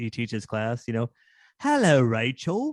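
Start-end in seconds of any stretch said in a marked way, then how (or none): 1.6-2.7 put-on British accent, pitched higher than normal. Speaker mimics Ross from Friends teaching his class, in Ross's fake British accent. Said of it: "I always sound like uh, Ross from Friends".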